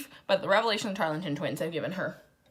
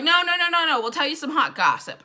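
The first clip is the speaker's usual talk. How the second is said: mock pleading; 7 semitones higher than usual. Twins coaxing Scarlett with hot gossip, mock pleading. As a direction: plead to stop someone leaving, hammed up.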